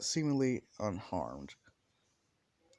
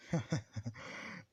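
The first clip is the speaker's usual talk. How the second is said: menacing chuckle; 2 semitones higher, 4 dB quieter than usual. Acted. Bakugo gloats before the threat.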